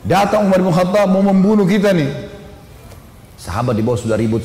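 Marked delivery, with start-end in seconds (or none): 0.0-2.3 sustained mock alarm call; retold shout. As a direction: imitate a lookout warning his companions. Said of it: "Teriak dia".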